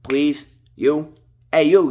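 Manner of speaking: loud playful call to the viewer, pitch up. Real, not acted. Vlogger calling out to the viewer to hit like, loud playful call.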